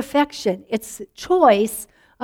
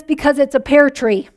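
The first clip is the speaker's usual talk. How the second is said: laughing punchline. Acted.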